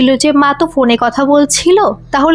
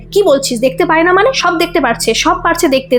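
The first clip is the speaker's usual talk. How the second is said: mild angry retort, a bit higher; angry mother; 4 semitones higher than usual. Acted. Mother retorting to her daughter, mildly angry. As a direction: push back at the daughter, understated anger. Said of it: "তার মা আবার রেগে যায়".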